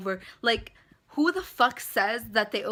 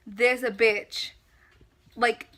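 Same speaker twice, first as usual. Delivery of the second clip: angry rant; 3 semitones higher, 8 dB louder than usual. Real, not acted. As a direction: let the outrage burst out. Ranting about the scammer.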